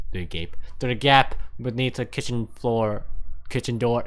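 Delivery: tripping over the words; halting, fumbling read; stumbling misread. Real, not acted. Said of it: "I can't fucking read this".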